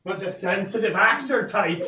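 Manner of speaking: put-on slow, laughing French Canadian accent. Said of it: "that French Canadian accent".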